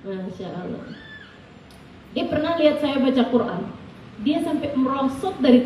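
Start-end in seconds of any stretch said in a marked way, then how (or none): 0.1-0.9 hushed awe. Real, not acted. Awed murmur after the story.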